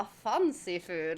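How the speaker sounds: slow, drawn-out posh delivery; lightly put-on poshness; mock posh. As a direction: say it like something fancy. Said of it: "like, posh".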